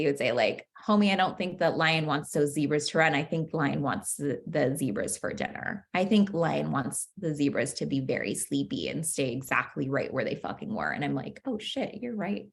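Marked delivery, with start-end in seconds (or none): 0.9-10.9 deadpan, sinking lower toward the end; dry sarcasm. Pretend. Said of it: "you would say to me all sarcastically". 11.4-12.5 softer, deflated admission; quiet grumbling concession; grudging mutter. Pretend. Conceding to the smartass friend.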